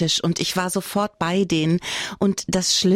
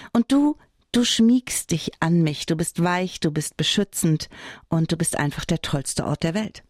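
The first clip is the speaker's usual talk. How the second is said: lightly performed fond letter read-aloud; affectionate letter to a dear old companion; love letter reading. Acted. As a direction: address the bed like a beloved. Reads a love letter to bed.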